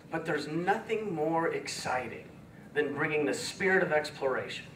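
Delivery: real emotion catching in the throat; choked up. Real, not acted. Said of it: "I'm getting so emotional".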